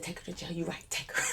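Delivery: very soft, resigned agreement; quiet giving up. Retold or imitated. Agreeing with the officer to jail her, hushed. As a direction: say it under your breath.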